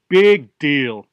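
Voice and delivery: loud, scornful brush-off; dismissive. Acted. Fish to god, unimpressed by the favor, dismissive. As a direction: scoff at the offer.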